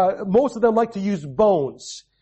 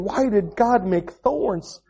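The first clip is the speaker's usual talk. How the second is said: put-on crying child; much slower than usual. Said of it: "He's crying saying".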